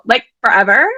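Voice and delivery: a hint of Valley Girl, rising on forever; breezy Valley Girl question, like forever?; light Valley Girl. Shown as a demonstration. Host showing Sam the line, lightly voiced Valley Girl. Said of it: "use your best Valley Girl voice".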